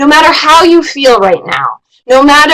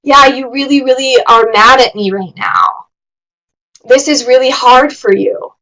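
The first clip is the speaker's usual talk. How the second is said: empathetic. Shown as a demonstration. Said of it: "doing it in an empathetic, caring way".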